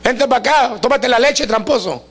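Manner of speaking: calling out a teasing nickname; mock yelling "tramposo". Preacher voicing people yelling at young Jacob, mock yell. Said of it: "y le gritan".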